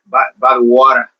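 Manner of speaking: attempted Aussie accent. Shown as a demonstration. Host practising Aussie phrases for Jules, imperfect Aussie accent. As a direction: have a go at sounding Australian. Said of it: "not Aussie".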